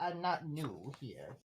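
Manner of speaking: "I'm not new here" with "not" easily misheard; unclear "new here". Acted. Newcomer to the bartender, "I'm not new here" said unclearly. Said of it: "it sounded like you said you are not new here".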